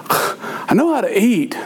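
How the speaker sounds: put-on slow, exasperated kid whine; mock-whining, drawn-out protest; whiny son. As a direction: imitate a fed-up child. Son whines at father's rules.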